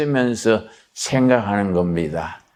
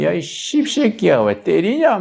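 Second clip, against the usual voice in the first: 흉내 낸 욕설; 7 semitones higher than usual. Retold or imitated. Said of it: "교양이 없지요".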